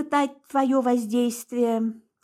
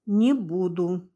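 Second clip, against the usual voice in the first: slow, low stubborn grumble; 3 semitones lower, slower than usual. A narrator's reading. Mara refuses Oldrik, stubborn low grumble. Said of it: "упрямо проворчала я".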